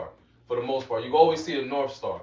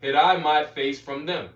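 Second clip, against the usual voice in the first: measured Bible proclamation; scripture reading. Acted. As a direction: declaim the verse, leaning on the opening words. Reads scripture aloud to listeners.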